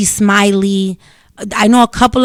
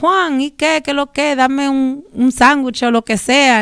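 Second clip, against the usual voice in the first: higher, breezy Dominican Spanish to the bodega guy; casual Spanish greeting; 5 semitones higher than usual. Retold or imitated. Ordering from the bodega guy in casual Dominican Spanish. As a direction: call out to Juan like a regular. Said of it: "you walk in and you're like".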